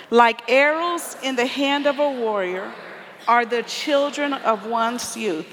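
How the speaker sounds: measured, deliberate group reading; scripture read aloud. Acted. Speaker leading the congregation in reading a psalm, measured scripture reading. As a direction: lead a congregation through the verse, phrase by phrase.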